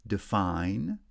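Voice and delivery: "Define", unstressed first syllable, strong second; second-syllable stress. Shown as a demonstration. Teacher showing stress patterns, second-syllable stress on "Define". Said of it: "stress on the second syllable only".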